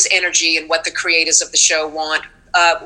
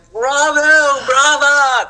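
high, hammed-up bravo calls; raised stagey ovation cry; mock cheering; 7 semitones higher, 3 dB louder, much slower than usual. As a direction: cheer like a whole cast on its feet. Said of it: "started going".

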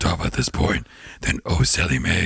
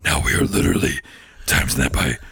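Satan voice; 5 semitones lower than usual. Retold or imitated. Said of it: "that voice is hard to do".

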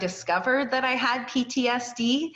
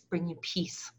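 hushed whisper on peace; 5 dB quieter than usual. Real, not acted. Host whispers to listeners about what brings peace. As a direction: breathe the words out softly.

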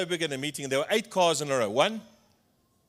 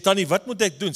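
alarmed plea; 6 semitones higher, 6 dB louder than usual. Retold or imitated. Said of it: "Ek sê".

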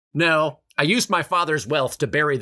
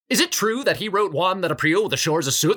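put-on school child; 5 semitones higher than usual. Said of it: "School child".

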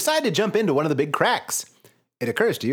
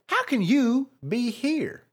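demanding; 9 semitones higher, much slower than usual. A narrator's reading. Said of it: "you demand".

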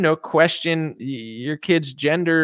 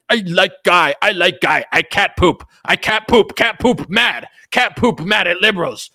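louder, higher dim caveman grunt-talk; 4 semitones higher, 4 dB louder than usual. Acted. Mocking pro-Trump content as a loud dumb caveman. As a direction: play a simple-minded caveman. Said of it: "It's like caveman content".

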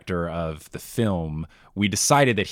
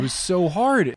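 much higher and louder; emphatic; 10 semitones higher, 4 dB louder than usual. Real, not acted. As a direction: stress how hard it was. Emphatic complaint.

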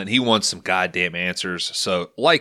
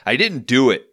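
yelling; 4 semitones higher, 5 dB louder than usual. Acted. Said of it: "Pullman yells".

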